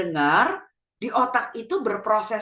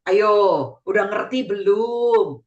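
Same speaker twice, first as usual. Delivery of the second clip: lively tone; 2 semitones lower, 3 dB louder, slower than usual. Shown as a demonstration. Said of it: "mesti ada nada yang tinggi".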